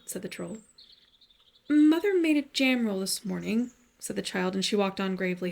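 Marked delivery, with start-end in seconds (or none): 1.7-3.7 put-on high, slow, louder little-girl answer; small girl's voice. Child telling the troll about the jam roll, slow high girl voice. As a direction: explain it earnestly like a four-year-old. Child explains why she won't go.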